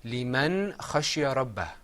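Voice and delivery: لمن خشي ربه recited clearly, phrase by phrase; model recitation. Shown as a demonstration. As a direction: lead the class through لمن خشي ربه. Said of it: "Say that with me all together".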